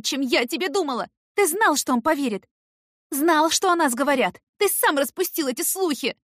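high, loud accusing shouts; furious tirade. A narrator's reading. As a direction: unload all the betrayal on him. Heroine raging at Eric.

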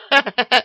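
short high giggle; a shrill monster titter; squeaky beast laugh. A narrator's reading. Dragon head laughs.

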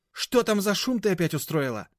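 high, loud scolding; an old lady's annoyed high scold; irritated old woman. A narrator's reading. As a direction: tell off the noisy woman. Grandmother scolding the noise.

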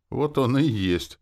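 high, loud, drawn-out confirmation; eagerly explaining. A narrator's reading. Demoness eagerly explaining to her host, eager. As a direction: explain it with relish. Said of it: "охотно объяснила демоница".

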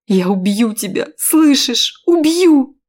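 building to a high loud scream; loud rising furious threat. Acted. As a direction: threaten him in rising rage. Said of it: "кричала я".

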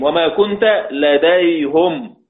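لديهم recited as "ladayhum"; slow verse quote ending لديهم on "-hum"; Hamza's damma reading. Shown as a demonstration. Teacher quoting a verse in Hamza's reading, لديهم as "ladayhum". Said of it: "بالهاء".

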